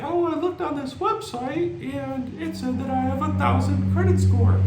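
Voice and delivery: a client proudly bragging about a fake score; mock boastful client. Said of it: "everybody's gonna say".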